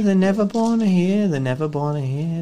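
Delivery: high, loud possessed wail; horror movie screaming. Acted. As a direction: shriek it like she's possessed. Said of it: "ramble like a crazy person".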